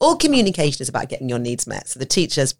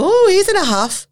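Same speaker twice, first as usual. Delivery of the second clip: much higher, louder teasing voice; mocking family member; 6 dB louder than usual. Partner teasing the sulking dad, a high mocking voice. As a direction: tease him lightly for sulking.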